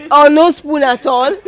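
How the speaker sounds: laughing through the joke, loud and high; amused chuckle while delivering a quip. Real, not acted. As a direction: let the laugh carry the punchline. Joking about having no spoon.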